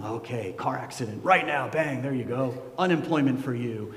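mock indifferent God pressing buttons; cold and detached. God imagined as a cold detached lever-puller. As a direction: tick off disasters like a bored operator. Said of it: "kind of cold and detached".

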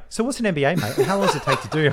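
laughing, mock dopey questioning of a mate; mock clueless friend. Mocking his mate's forgetful questions, laughing through it. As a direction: ask it like you've forgotten already, half laughing. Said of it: "One minute later".

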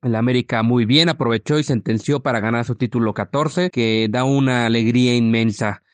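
rough, worn voice after a long day; hoarse from shouting at the match. Real, not acted. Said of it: "perdón por la voz ronca".

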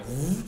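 "v" as a long held buzz, vvv; sustained "v" sound for a reading drill; prolonged consonant. Shown as a demonstration. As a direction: hold the sound of "v", not its letter name. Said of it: "depois os prolongáveis".

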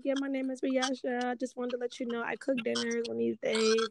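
a hint of a Jamaican accent, pitching her cooking; mild Jamaican accent impression; imitated Jamaican friend. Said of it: "with her Jama-, Jamaican accents".

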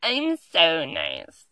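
slow, drawn-out mock sweetness; mock a fake-nice person, stretched out; slow mocking "I'm so nice"; smug self-praise. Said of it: "one of those people that's like".

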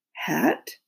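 breathy ghostly whisper. Acted. Ghost Queen asks, whispered.

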